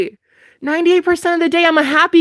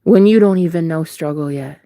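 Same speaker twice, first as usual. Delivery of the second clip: mock solemn scolding; 11 semitones lower than usual. Dramatic speech to judging viewers.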